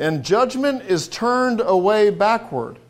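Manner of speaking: slow, deliberate scripture reading; slowly, weighing each word. Shown as a demonstration. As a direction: draw out every word of the verse. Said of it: "let's read this very slowly".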